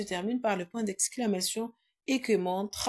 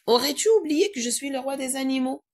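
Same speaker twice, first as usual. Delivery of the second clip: a lightly voiced proud lion, a bit louder; lion's line; 4 semitones higher, 6 dB louder than usual. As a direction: read it as the king of beasts. Élève lit la réplique du lion. (réplique du lion, un peu jouée)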